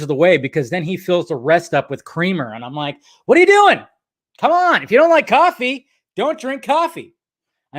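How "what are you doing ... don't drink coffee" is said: high-pitched, exasperated mock outburst; mock exasperation. Telling off brother for drowning coffee in creamer, mock exasperated. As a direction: scold in a raised, incredulous pitch.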